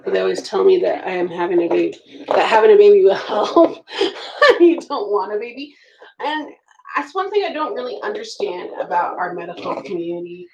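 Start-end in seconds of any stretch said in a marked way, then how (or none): none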